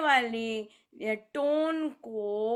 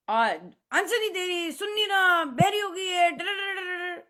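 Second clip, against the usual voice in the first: mocking shouter; 6 semitones higher, 5 dB louder than usual. Imitating shouting family member.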